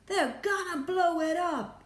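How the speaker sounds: high, loud alarmed outburst; panicked yell. A narrator's reading. Ground Control fearing for the space hotel, panicked yell. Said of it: "yelled Ground Control".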